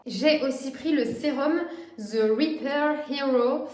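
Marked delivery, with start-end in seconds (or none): 2.0-3.6 « The Repair Hero » dit lentement avec un accent anglais approximatif; accent anglais maladroit. Real, not acted. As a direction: tente l'anglais, un peu à la française. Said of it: "mon accent anglais qui est un petit peu pourri". (« The Repair Hero » prononcé avec un anglais hésitant et lent)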